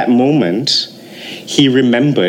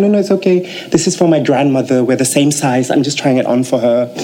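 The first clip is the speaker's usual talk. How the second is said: mock reassurance; 3 semitones higher than usual. Saleh excusing himself to shop sellers, placating. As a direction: wave away their suspicion. Acted excuse to suspicious shopkeepers.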